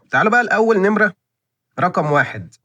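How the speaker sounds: high, fast and bright with eagerness; excited presenter kicking off the list; eager announcement. Real, not acted. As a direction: hype up the first plate. Eagerly introduces first plate.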